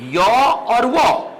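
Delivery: यो and वो stretched very slowly as gliding half-vowels; वो and यो sung out slowly as glides; drawn-out semivowels. Shown as a demonstration. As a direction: hold यो और वो long and smooth. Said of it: "ये बेटा क्या रह गए आपके".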